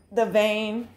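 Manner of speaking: talking while crunching; chewing a crunchy bite; crunching pepper. Real, not acted. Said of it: "as you can hear me crunching into it".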